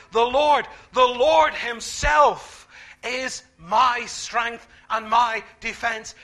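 slow, loud proclamation; preaching shout. Acted. Preacher proclaims Isaiah's words, slow and shouted. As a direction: call it out to the whole room.

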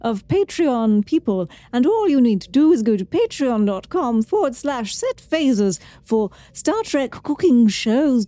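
lilting TV chef delivery; Julia Child voice. Pretend. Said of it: "what accent or style should I do it in".

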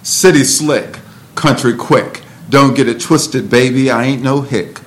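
rhythmic, punchy poetry delivery; spoken word poem, bold and playful; spoken word performance. Acted. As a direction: perform it with swagger.

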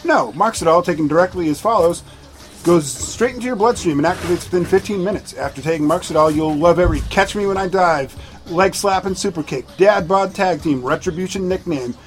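fast pitchman ad read. Acted. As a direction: sell it like a drug commercial. Fake drug commercial read.

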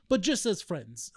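slow mock Russian accent. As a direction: set the condition slowly in an imitated Russian accent. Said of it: "it sounds like a Russian accent".

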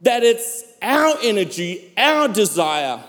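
emphatic sermon delivery with long dramatic pauses; preaching. Acted. Pastor telling the church of a healing miracle, preaching. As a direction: preach it in swelling, weighted phrases.

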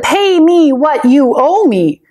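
a harsh, mock-menacing order for the money; storybook angry demand. A narrator's reading. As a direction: servant threatening his debtor, mildly angry. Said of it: "he grabbed the man by the throat".

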